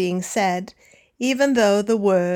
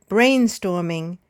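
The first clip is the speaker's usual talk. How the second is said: BRAIN-storming, weight on the start; first-syllable stress; 3 semitones lower than usual. Shown as a demonstration. Teacher gives learners the example "brainstorming", first syllable stressed. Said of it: "stressing, of course, the first or second syllable".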